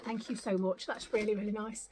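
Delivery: real, soft and low, near crying; subdued thanks, holding back tears; close to tears. Real, not acted. Mother moved by a gift naming her late child, tearful. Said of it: "I'm gonna start crying in a minute".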